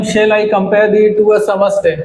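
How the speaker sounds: very slow line read, word by word; slow scanning read. Shown as a demonstration. Teacher reading the Shakespeare line slowly for students, measured. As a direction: read it out slowly for the class to scan. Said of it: "इस line को देखें".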